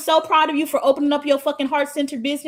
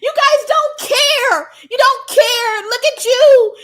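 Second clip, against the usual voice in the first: shrill-free caricature of a pearl-clutcher, pitched way up and loud; mocking outraged person; 14 semitones higher, 10 dB louder than usual. Mocking hypocrites who cry about people dying, high and loud. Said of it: "the same people that can be like".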